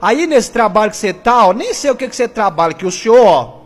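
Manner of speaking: pressing, emphatic pastor delivery; fervent radio preaching. Acted. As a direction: exhort the faithful with rising urgency. Preaches and exhorts listeners.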